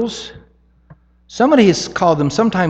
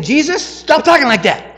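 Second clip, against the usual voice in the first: high, loud rebuke; rebuking; 10 semitones higher, 6 dB louder than usual. Retold or imitated. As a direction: scold Jesus sharply. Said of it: "now he's saying".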